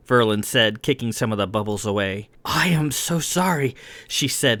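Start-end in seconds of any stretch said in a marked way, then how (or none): 2.4-3.8 higher-pitched, embarrassed apology; embarrassed, voice lifted; mortified apology. A narrator's reading.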